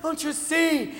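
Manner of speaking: high, hushed, drawn-out dread; mock horror warning. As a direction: warn them like a horror-film victim. Mock horror warning about children.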